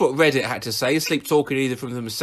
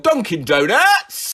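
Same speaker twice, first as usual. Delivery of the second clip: mock yell; 5 semitones higher, 4 dB louder, slower than usual. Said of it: "Randomly yelled".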